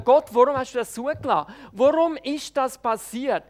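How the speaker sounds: loud, pleading outcry; crying out to God. Shown as a demonstration. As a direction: shout the question up to God. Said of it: "Schreit Sie ihm die Frage wirklich entgegen".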